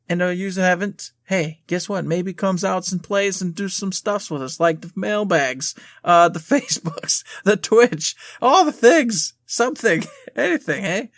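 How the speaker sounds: a playful put-on Russian accent, slipping; mock Russian accent that drifts away. Cohost plugging socials in a slipping mock Russian accent. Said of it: "You lost your Russian accent".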